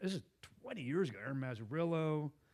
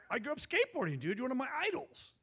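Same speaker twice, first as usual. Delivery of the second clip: much higher, gushing like an excited fan; starstruck fan; 11 semitones higher, faster than usual. Retold or imitated. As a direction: gush to your childhood hero. Fanboying to his skateboarding idol.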